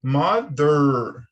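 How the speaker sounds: "Mother" ending in a curled American R; rolled R. Shown as a demonstration. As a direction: curl the R at the end of "Mother". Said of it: "sempre enrolando".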